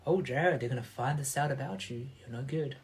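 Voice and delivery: fading into a soft inner voice; the worried voice at the back of his mind, softening; soft nagging inner voice. Retold or imitated. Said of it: "this voice at the back of my mind going".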